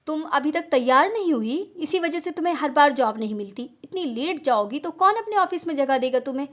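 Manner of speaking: mother scolding a late daughter. Acted. (डाँटती हुई माँ की आवाज़)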